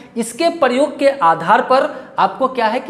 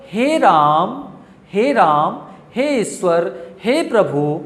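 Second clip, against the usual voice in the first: long-held vowels in "हे राम", "हे प्रभु"; drawn-out calling; slower than usual. Shown as a demonstration. Teacher demonstrating calls to God, drawn-out calling. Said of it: "जैसे आप पुकारते हैं ना भगवान को".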